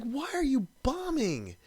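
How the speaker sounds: ordinary delivery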